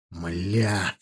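ordinary delivery

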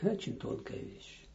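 ordinary talk, nothing marked

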